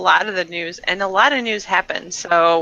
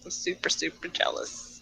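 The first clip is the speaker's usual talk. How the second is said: breathy unvoiced whisper; whispered jealousy; 4 semitones lower, 15 dB quieter than usual. Real, not acted. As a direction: whisper the confession. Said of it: "because I'm jealous".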